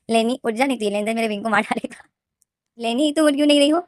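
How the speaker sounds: hammed-up begging to wake up; mock urgent plea. Narrator begs sleeping Leni to wake up, hammed-up urgent call.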